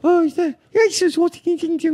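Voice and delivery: put-on very high squeaky accented voice; high falsetto mock accent; mock Asian accent. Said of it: "it's like".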